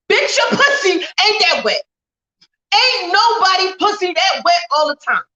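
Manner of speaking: scolding shout. Real, not acted. Shouted retort to the mock boast.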